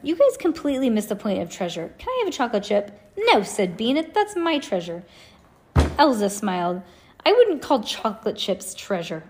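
put-on lively storybook read-aloud with kid voices; reading to children. Parent reading Ivy and Bean to kids, animated read-aloud. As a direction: read it to the kids in the car, voicing each character.

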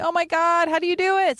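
awed. Retold or imitated. Awed quote about stand-up.

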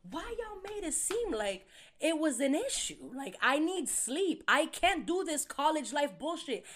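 high, loud defensive rant. Retold or imitated. Defending needing sleep to the group, high and loud. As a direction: insist you need your sleep. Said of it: "I'm like".

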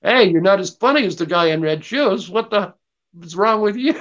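heckler voice. Pretend. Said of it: "I'm heckling".

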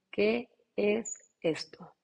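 slow, drawn-out disbelief; slow amazed. Retold or imitated. Recalling her first yoga classes, slow stunned wonder. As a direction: draw it out in wonder.

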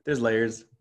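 a light hint of a Shrek-style ogre. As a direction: lightly voice the ogre on these words. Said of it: "like an ogre and an onion".

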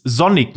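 Sonic begun with a soft voiced German S, "Zonic". Shown as a demonstration. Podcaster showing how some misname the hedgehog, soft S. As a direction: say Sonic with a buzzing z at the start. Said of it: "einfach so ein weiches S dann benutzen".

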